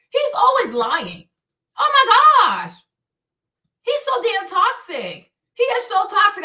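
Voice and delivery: "Oh my gosh" shot up high and loud in exasperation; exasperated outburst. Real, not acted. Venting to viewers about a lying rapper, exasperated loud outburst. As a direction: throw up your hands, cry it out.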